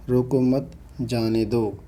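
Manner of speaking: "रोको मत" together, pause, then "जाने दो"; pause after मत. Shown as a demonstration. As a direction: break the sentence after मत, dropping on जाने दो. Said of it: "थोड़ा रुकना होता हो".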